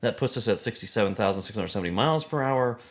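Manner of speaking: lightly voiced science lecturer; earnest, emphatic running calculation; a hint of a pedantic astrophysicist; Neil deGrasse Tyson. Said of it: "my impression of Neil deGrasse Tyson".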